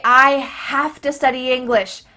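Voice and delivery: loud "have to" said as "hafta"; linked "hafta" demo; reduced have to. Shown as a demonstration. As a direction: run "have to" together, ending in "uh". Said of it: "to changes to a".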